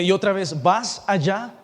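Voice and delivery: vas set apart with emphasis before allá; stress on vas. Shown as a demonstration. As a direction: lean on vas, questioning. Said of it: "tengo énfasis en la palabra vamos y vas".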